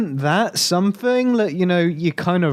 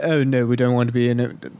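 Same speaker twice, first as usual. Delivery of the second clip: bad Japanese accent; 6 semitones lower than usual. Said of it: "That's the worst Japanese accent in the world".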